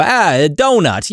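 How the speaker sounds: slow New Yorker drawl on "Ah, a donut"; hammed-up New York voice; American accent. Shown as a demonstration. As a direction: warm up into a stereotypical American accent. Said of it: "For the American accent, mine is donut".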